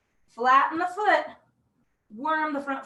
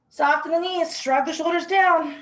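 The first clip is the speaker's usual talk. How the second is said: out of breath. Real, not acted. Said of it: "So I'm out of breath".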